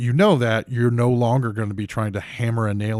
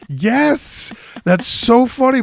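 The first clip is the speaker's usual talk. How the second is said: much higher and louder, gleeful; delighted; 9 dB louder, much slower than usual. Retold or imitated. Audience member thrilled by the waiter's tag, high and gleeful. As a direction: squeal it with delight. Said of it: "And I just go".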